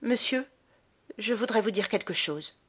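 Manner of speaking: cool, challenging address, pitch up on Monsieur; defiant. A narrator's reading. Boy confronting the baron in the hotel hall, defiant. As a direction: stand up to him, daring him to answer. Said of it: "d'un air de défi".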